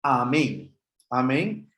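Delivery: "amén" begun on a plain A sound; "amén" with no J sound before the vowel; smooth breathing. Shown as a demonstration. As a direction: say "amén" with only the alpha sound at the start. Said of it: "solamente tiene el sonido de la alfa".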